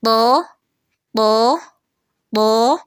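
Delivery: تو heavy with no h sound; correct heavy sound. Shown as a demonstration. Teacher giving the correct pronunciation. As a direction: say تو heavy and clean. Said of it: "ہم اس کو اس طریقے سے پڑھیں گے".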